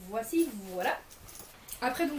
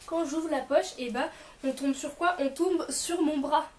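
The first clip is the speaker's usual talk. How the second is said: excited; 5 semitones higher, 6 dB louder than usual. Real, not acted. Joking reveal of the pocket.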